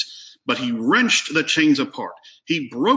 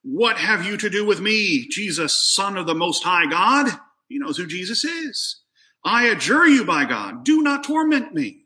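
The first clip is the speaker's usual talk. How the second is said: crying out loud; 6 semitones higher than usual. A narrator's reading. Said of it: "crying out with a loud voice".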